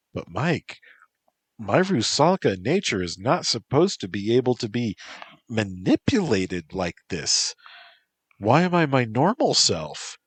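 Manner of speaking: a lightly voiced young woman, baffled and a little alarmed; Lilia, puzzled. Lilia asking Mike why she feels normal, puzzled. Lilia speaks, confused by change.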